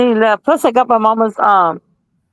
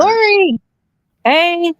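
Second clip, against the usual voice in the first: calling out a name, higher and bright; excited greeting; 7 semitones higher, much slower than usual. Real, not acted. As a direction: hail a friend who just showed up. Greeting a friend arriving on stream.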